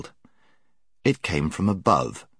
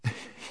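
hearty laugh; 15 dB quieter than usual. A narrator's reading. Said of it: "laughed even more heartily".

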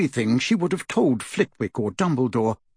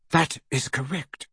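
cool, unencouraging reply; discouraging; 3 dB quieter than usual. Acted. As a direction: answer softly, giving no encouragement. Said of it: "Her tone was not encouraging".

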